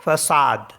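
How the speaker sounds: फसाद with an s in the middle; French façade. Shown as a demonstration. Teacher modeling French word façade. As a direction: say फसाद, s not k. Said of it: "इसको पढ़ते हैं हम फसाद".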